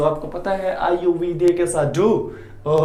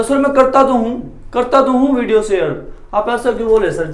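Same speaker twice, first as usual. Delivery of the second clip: student protesting; 5 semitones higher, 3 dB louder than usual. Acted. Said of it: "तो राहुल ने बोला".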